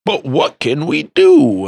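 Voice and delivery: slow, high mock plea; mock helpless whine. Mocking helpless administrator.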